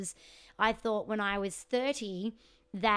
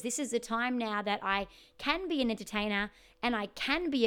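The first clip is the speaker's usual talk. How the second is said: put-on southern accent. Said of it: "That was, like, my southern accent".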